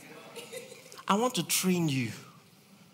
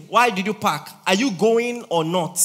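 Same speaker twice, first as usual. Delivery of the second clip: impatient; 2 semitones higher, 6 dB louder than usual. Retold or imitated. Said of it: "so I said".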